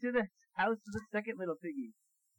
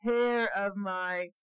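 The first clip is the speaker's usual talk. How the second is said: squeaky piggy voice; 3 semitones higher, much slower than usual. Acted. Piggy refusing the wolf again.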